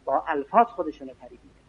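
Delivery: murmured quick restatement; quiet aside. Acted. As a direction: drop the voice and hurry through الفاظ as an aside. Preacher repeats a key phrase.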